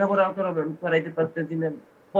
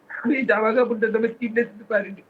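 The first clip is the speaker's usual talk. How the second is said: higher, crying out the regret; real tearful breakdown; 4 semitones higher, 3 dB louder than usual. Real, not acted. Father unable to buy his son clothes, breaking down. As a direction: break into tears as you confess it. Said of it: "কান্নায় ভেঙে পড়েছেন".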